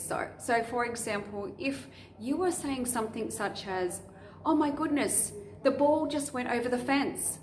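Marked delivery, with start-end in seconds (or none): 4.4-7.4 lively, raised, excited exclamation; with expression. Shown as a demonstration. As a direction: sound amazed at the ball. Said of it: "you're saying that with expression".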